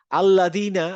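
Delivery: teacher repeats আল্লাযিনা for the class. Shown as a demonstration. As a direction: stretch out আল্লাযিনা clearly. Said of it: "আমি বলছি আল্লাযিনা".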